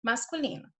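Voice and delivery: usual speaking voice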